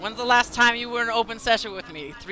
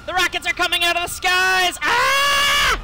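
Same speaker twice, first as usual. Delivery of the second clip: alarmed cry; 7 semitones higher, 3 dB louder, slower than usual. Real, not acted. Rockets falling.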